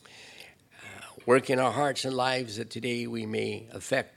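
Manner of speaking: steady, firm prayer voice; closing prayer. Acted. Pastor praying for the church, firm and solemn.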